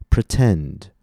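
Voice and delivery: "pretend" with weight on the second syllable; light prefix, strong root in "pretend"; stress on the root. Shown as a demonstration. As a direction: model "pretend", stressed at the back. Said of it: "we stress the root".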